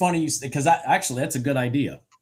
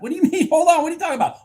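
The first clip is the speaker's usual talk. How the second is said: high, loud, laughing what do you mean; startled protest breaking into a laugh; incredulous disbelief; 4 dB louder, much faster than usual. Retold or imitated. Retelling his shock at the blocked contract, laughing disbelief.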